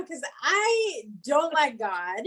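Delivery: slow, said through a laugh; laughing confession. Real, not acted. Laughing as she confesses her anger at God. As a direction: laugh as you admit it.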